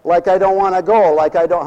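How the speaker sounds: mock a bored teenage girl; lightly voiced Valley Girl whine. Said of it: "I heard some girls talking like that".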